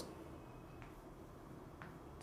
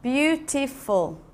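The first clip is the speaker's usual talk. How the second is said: "beautiful" drawn out slowly, beau-ti-ful; teacher slowing "beautiful" so the class counts beats; slow syllables; 2 semitones higher, slower than usual. Shown as a demonstration. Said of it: "so it's three syllables".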